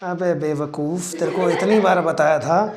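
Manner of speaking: mock scolding through a laugh. Real, not acted. Tutor laughingly scolding a student for a repeated mistake. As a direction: tease the student while laughing.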